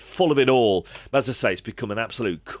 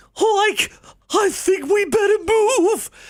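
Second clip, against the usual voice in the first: very high, loud cartoon character voice; 5 dB louder than usual. Showing off impressions he did on TikTok, Shaggy voice. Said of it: "I'll do Shaggy and Scooby-Doo".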